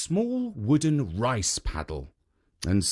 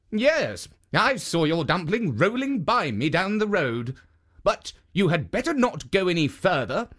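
higher, gentle warning statue; raised kindly guardian voice; 5 semitones higher than usual. Acted. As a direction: warn her like a kind guardian. Jitso statue warns her.

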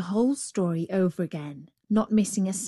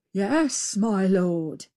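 obedient little reply; a hint of servile jackal; meek jackal; much slower than usual. A narrator's reading. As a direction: answer humbly as the jackal.

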